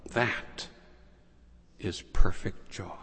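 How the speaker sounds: unvoiced, hushed reveal; whispered climax. Francis to Brother Leo, whispered reveal. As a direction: breathe it out as a whisper.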